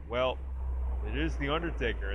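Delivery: deadpan matter-of-fact imitation; understated, unimpressed retort; nonchalant, dry. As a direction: shrug it off dryly. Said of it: "very sort of nonchalantly goes".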